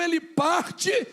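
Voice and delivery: high, loud, drawn-out exclamation; climactic shout. Real, not acted. Preacher telling how Peter sets out, climactic shout. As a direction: burst out on the key word.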